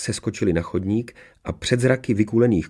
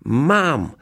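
high, triumphant cry; jubilant; 7 semitones higher, 3 dB louder than usual. A narrator's reading. Girl grabs back her magic ring, jubilant. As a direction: exult as you snatch it. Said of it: "zajásala Mařenka".

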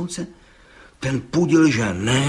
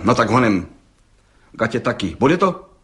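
snapping; 3 dB louder than usual. Acted. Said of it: "obořil se soudce".

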